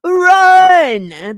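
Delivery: loud, high hype call; announcer call-out. Acted. Host hyping the guest's entrance, loud announcer call. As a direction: shout it like a game-show intro.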